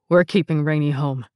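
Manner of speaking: said through gritted teeth. Retold or imitated. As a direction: push it out through clenched teeth. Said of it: "teeth gritted".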